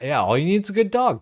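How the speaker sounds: hammed-up Irish farmer lilt, quickly; mock Irish farmer accent. Streamer repeats the Irish farmer's line, in a mock Irish accent. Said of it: "Irish farmer's glorious accent".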